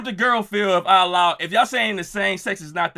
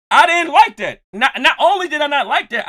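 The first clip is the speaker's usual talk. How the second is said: laughing; 7 semitones higher, 6 dB louder than usual. Real, not acted. Laughing admission to chat.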